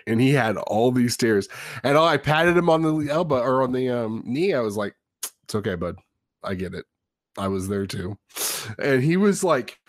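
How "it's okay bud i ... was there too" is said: low, soft fatherly reassurance; soft-spoken, understated sympathy; gentle consoling. Retold or imitated. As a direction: comfort a crying son quietly. Dad retells comforting his crying son.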